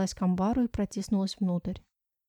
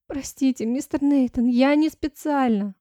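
pleading; 4 semitones higher, 5 dB louder than usual. Acted. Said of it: "умоляюще посмотрела".

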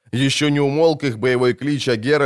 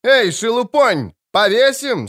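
higher, louder, slow threatening bellow; knight's shout; 10 semitones higher, 4 dB louder, slower than usual. A narrator's reading. (угрожающий крик, выше и громче)

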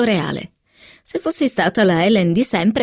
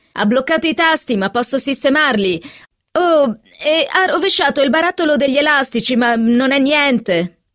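higher-pitched call, mildly raised; 5 semitones higher than usual. A narrator's reading. Catherine reports the cat's damage to the keyboard, calling out. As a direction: report the damage from another room, stretching the end. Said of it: "gridò Catherine".

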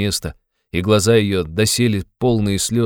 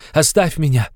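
raised, desperate plea; anguished cry; 9 semitones higher, 4 dB louder than usual. A narrator's reading. Raskolnikov begging Sonya to leave him, anguished cry. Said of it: "вскричал он вдруг в судорожной тоске".

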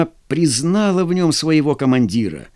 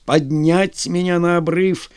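shouted order; 3 semitones higher than usual. Acted. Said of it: "прокричал Брянов".

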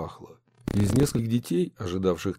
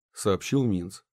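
usual speaking voice

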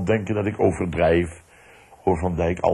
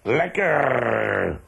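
eager, raised cries of delight; kids calling out; 5 semitones higher, 4 dB louder, much slower than usual. Retold or imitated. Sons at the dinner table praising dad's cooking, eager cries. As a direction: call it out like a happy child at dinner. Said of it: "En roepen dan nog".

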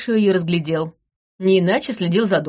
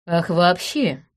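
drawled; much slower than usual. Acted. Detective echoes the suspect's excuse, drawn out. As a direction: stretch out вообще slowly and knowingly. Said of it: "протянула я".

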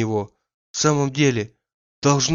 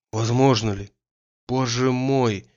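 alarmed sympathy. A narrator's reading. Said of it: "с испугом и участием сказал Андрей".

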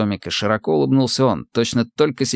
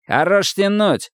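barked; 9 semitones higher, slower than usual. A narrator's reading. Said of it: "рявкнул опять рядовой Гусев".

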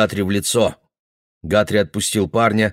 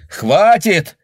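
much higher, loud; shout; 10 semitones higher, 6 dB louder than usual. Acted. Neighbour shouting at the fighters, loud. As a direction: call out to stop the fight. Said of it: "кричал он".

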